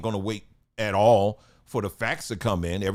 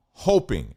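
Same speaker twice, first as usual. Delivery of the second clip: "hoping" set apart and punched louder; stress on hoping; 5 dB louder than usual. Real, not acted. Warning viewers it might not be true, stress on "hoping". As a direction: lean hard on "hoping" after a beat. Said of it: "I emphasize the word hoping".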